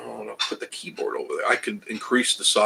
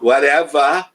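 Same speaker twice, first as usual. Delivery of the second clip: dismissive whatever; 5 semitones higher, 6 dB louder, slower than usual. Pretend. Shrugging off the bad numbers.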